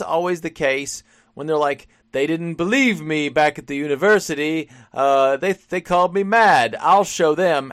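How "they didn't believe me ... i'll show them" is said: lightly hammed-up scorned scientist, building louder; a hint of movie mad scientist, rising in indignation; mock mad scientist. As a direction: play at vowing revenge on doubters. Parody of scorned mad scientist cliché.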